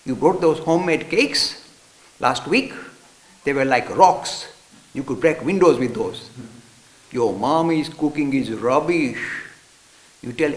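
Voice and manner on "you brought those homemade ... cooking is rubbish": louder, slow scornful jeer; mocking taunt. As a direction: sneer at his mom's cooking. Boy mocking friend's mom.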